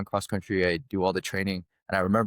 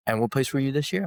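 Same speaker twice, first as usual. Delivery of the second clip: quicker, higher coach voice; pressing coach, quick and raised; imitating coach; 5 semitones higher, faster than usual. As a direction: fire the question back fast. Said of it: "And he goes".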